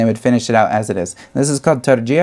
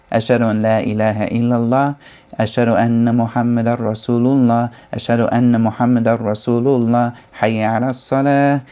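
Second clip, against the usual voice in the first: call to prayer; faster than usual. Shown as a demonstration. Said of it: "out loud".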